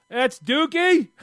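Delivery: high, loud incredulous outburst; shocked disbelief. Retold or imitated. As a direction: blurt it out aghast. Retelling his shocked discovery.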